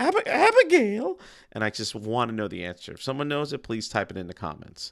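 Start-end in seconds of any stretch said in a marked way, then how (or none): 0.0-1.2 very high, loud falsetto, pitched way up. Greeting someone named Abigail with the cartoon line: Mel Blanc falsetto. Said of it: "He stays in a falsetto".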